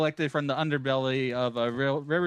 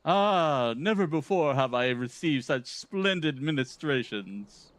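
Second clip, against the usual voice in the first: pompous gentleman hero, brisk and theatrical; Hildebrand. Acted. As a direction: read it like a vain, grandiose gentleman. Voicing Hildebrand's quest lines.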